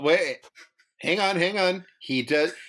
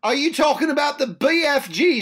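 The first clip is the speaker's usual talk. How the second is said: bad Cockney accent; 7 semitones higher than usual. Co-host needling friends about the film, bad Cockney. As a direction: shout it in hammed-up Cockney. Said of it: "never do your Cockney accent again".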